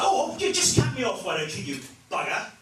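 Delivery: prissy polite anger at a driver; weak English road rage. Retold or imitated. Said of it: "and it's like".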